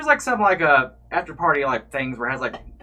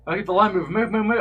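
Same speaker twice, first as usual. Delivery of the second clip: higher, louder barked orders; mock staff yelling; 8 semitones higher, 5 dB louder than usual. Staff tell the crowd to move, in a mock yell. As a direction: imitate staff shooing the line.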